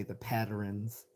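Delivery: "patterns" drawn out slowly in three syllables; mock-Baltimore "patterns", like "pad-er-ins"; Baltimore pronunciation. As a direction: stretch out "patterns" as locals do. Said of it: "I don't say".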